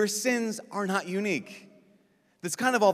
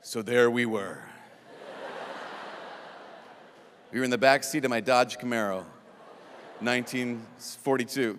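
storytelling penitent; 4 semitones lower than usual. Pretend. Penitent telling the whole story of the sin, mock storytelling. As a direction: settle into an overlong tale, hammed-up and lower. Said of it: "tell the story of the sin".

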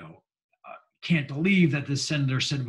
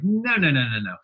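objecting senator; 4 semitones higher, 4 dB louder than usual. Retold or imitated. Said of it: "He says, like".

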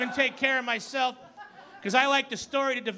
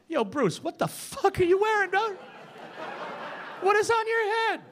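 mocking street confrontation; 7 semitones higher than usual. Someone confronting Batman.

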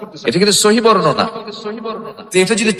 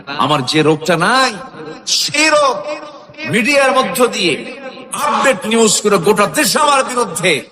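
রাগী নালিশ; 3 semitones higher than usual. Acted. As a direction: voice an aggrieved prophet, pitch climbing on the grievance. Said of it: "প্রচন্ড রেগে গেলেন। রেগে গিয়ে বললেন". (রেগে গিয়ে অভিযোগের সুরে)

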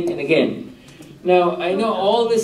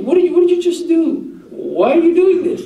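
incredulous Mutahari; 12 semitones higher, 3 dB louder than usual. Retold or imitated. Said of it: "Mutahari asked the sheikh".

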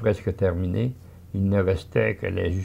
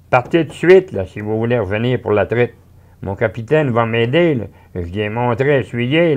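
high, loud, hurrying the family out; bossy mother; 4 semitones higher, 6 dB louder than usual. Acted. Mother sends the family off quickly, loud and high. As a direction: shoo them off before milking time.

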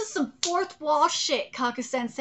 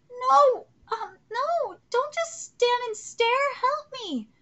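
crying plea; 5 semitones higher, 4 dB louder, slower than usual. Acted. Character crying for help.

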